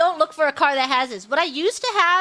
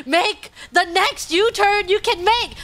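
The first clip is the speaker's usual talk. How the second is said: exasperated instructions; 4 semitones higher, slower than usual. Retold or imitated.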